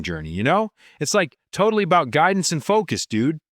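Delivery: swooping sing-song surfer-dude delivery; stoked beach-bum lilt; California surfer dude. Acted. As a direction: talk like a laid-back Californian surfer. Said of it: "respond as a typical California surfer dude".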